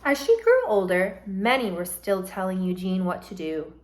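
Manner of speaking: storybook read-aloud, gentle and lively; reading to children. Acted. Teacher reads a picture book to her class, lively.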